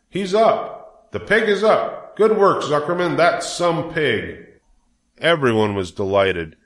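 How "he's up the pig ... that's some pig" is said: high-pitched jubilant crowd cries; excited yelling. A narrator's reading. Crowd congratulates Zuckerman on his pig, high excited cheering. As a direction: cheer him on from the stands. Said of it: "yelled the crowd".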